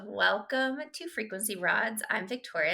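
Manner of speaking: ordinary talk, nothing marked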